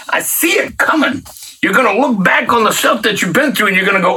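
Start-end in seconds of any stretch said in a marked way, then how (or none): 0.1-1.2 whisper. Real, not acted. Prophetic aside to listener.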